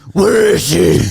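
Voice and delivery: mock frantic deputy. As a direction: shout like a panicked small-town deputy. Acting Barney scene.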